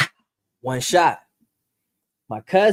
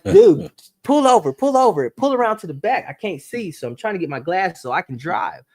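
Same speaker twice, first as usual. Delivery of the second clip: high, frantic pleading, much higher; panicked yelling at a cousin who can't drive; 6 semitones higher, 4 dB louder than usual. Retold or imitated. Telling his young cousin to pull over, frantic high voice. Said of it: "and I'm frantic".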